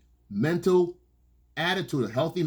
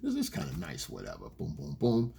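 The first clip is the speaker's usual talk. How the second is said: casual reply; 8 dB quieter than usual. Retold or imitated. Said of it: "Then you come back with something".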